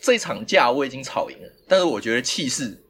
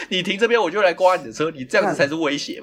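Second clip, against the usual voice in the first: mild indignant retort, slightly higher; retold fierce comeback; 5 semitones higher than usual. Driver retells answering the auntie's threat, mildly fierce. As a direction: throw back a mock-fierce accusation. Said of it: "干，好凶哦".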